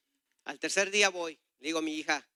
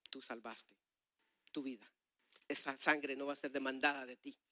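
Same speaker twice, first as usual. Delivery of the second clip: comforting word; 3 semitones lower, 6 dB quieter than usual. Retold or imitated. God's comforting word, retold.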